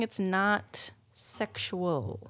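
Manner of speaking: breathy unvoiced whisper, trailing off. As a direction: whisper the goodbye conspiratorially. Sign-off joke about lotion.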